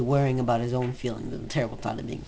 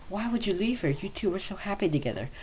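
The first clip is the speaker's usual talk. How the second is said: Cry's voice; 7 semitones higher than usual. Acted. Voicing Cry in the fic.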